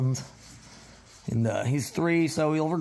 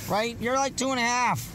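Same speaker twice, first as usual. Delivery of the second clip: pitched up, sweet and sing-song; high puppy talk; 9 semitones higher than usual. Real, not acted. Owner cooing at the young dog, high and sing-song.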